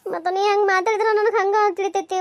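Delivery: speaking through tears; a hurt wife half sobbing; crying. Acted. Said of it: "ಅಳ್ಳಕತ್ತಿ ಯಾಕೆ ಹೇಳು?". (ಅಳುತ್ತಾ ಮಾತನಾಡುವುದು)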